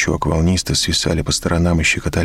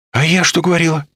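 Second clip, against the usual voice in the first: high, loud triumphant cry; elated exclamation; 13 semitones higher, 3 dB louder than usual. A narrator's reading. Olga exclaims she was right, elated. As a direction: exclaim with vindication. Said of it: "воодушевлённо восклицает моя защитница".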